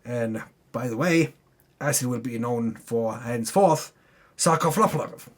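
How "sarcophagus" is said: sarcophagus mangled as sar-ko-fla-pla-va; unsure pronunciation. Real, not acted. Recapping the tomb, fumbling the word sarcophagus. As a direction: stumble through sarcophagus with syllables tangled. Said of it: "I don't even know if I said that correctly".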